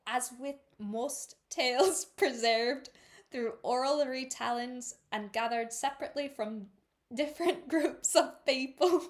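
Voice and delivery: giggly, halting Irish reading; attempted Irish accent. Shown as a demonstration. Reader labouring through the note, giggly halting Irish accent. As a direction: struggle on in Irish, cracking up. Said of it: "read that page in my best Irish attempt".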